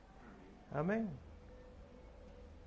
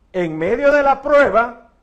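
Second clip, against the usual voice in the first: louder and slower, every word weighted; emphatic repeat; 4 semitones higher, 10 dB louder than usual. Acted. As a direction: lean hard into "en medio de la prueba". Phrase repeated, then stressed.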